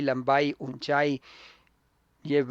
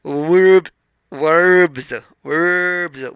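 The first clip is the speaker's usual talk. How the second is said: वर्ब्स in a British accent, r dropped, louder; 3 semitones higher, 10 dB louder, slower than usual. Shown as a demonstration. Teacher showing students वर्ब्स in a British accent. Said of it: "इसको British accent में बोलेंगे".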